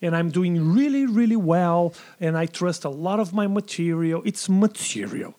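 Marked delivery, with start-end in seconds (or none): 4.2-5.3 slow, weighty statement; gravitas. Real, not acted. Comedian vouching for his own jokes, with gravitas. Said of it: "There's gravitas".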